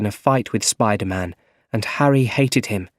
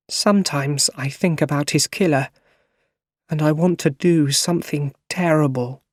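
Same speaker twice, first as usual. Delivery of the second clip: tearful; 6 semitones higher than usual. Acted. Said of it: "she started crying".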